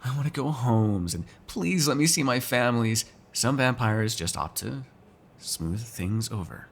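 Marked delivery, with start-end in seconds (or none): 0.0-1.1 lightly imitated whining; mock whine. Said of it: "deal with all the whiny". 1.5-3.1 lightly hammed-up pleading whine; mock whine. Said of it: "deal with all the whiny".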